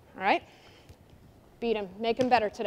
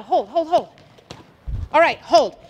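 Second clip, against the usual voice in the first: raised call to freeze play; calling hold. Real, not acted. Coach halts the players mid-drill, calling out. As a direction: stop them in their tracks with a call.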